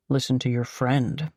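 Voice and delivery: snickering. Acted. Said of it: "he advises with a snicker".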